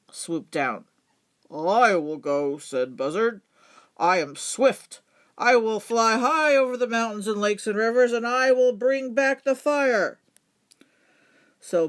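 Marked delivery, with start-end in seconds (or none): 1.5-10.2 boastful buzzard. Acted. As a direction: puff yourself up, swift and grand.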